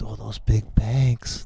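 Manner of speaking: slow sneering mock. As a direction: drawl it out with contempt. Mocking the big banks.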